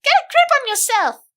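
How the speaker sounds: high, loud sharp shout; shaking a panicking friend and yelling at her. Acted. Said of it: "I shouted as I shook her".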